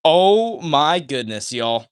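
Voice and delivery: slow, drawn-out gasp of amazement; amazed. Real, not acted. Stunned by stream announcement.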